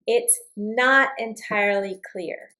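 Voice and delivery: slow, gentle "not entirely", falling tune; polite uncertainty. Shown as a demonstration. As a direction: ease the doubt in politely. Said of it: "It's a polite uncertainty".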